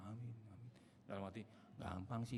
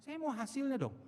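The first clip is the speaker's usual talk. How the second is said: much higher, louder whiny demand to God; demanding believer; 9 dB louder than usual. Retold or imitated. Believer demanding results from God, high and whiny. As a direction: plead and complain like a spoiled child. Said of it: "Maunya saudara kan begitu".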